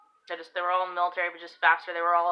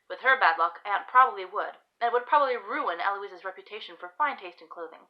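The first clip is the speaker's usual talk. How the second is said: expressive storybook reading, lilting stresses; story narration; 4 semitones higher than usual. Acted. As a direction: read your story aloud with measured phrasing. Reads own story aloud.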